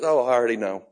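lightly voiced unimpressed father; a hint of a stoic, distant father. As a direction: say it like an aloof dad, hard to impress. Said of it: "a stoic, distant father that goes".

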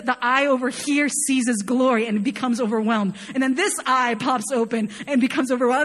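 normal talking voice

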